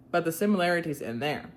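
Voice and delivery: reading in an easy Southern accent. Real, not acted. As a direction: read it plainly with your Southern accent. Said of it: "read it in my nice southern accent".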